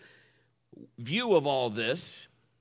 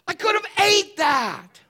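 much higher, louder, slow; exasperated outburst; 13 semitones higher, 9 dB louder than usual. Retold or imitated. Pastor exclaiming over the wasted burger, loud and high. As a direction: blurt it out in mock disbelief.

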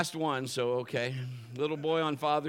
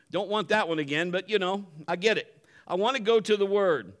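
usual speaking voice

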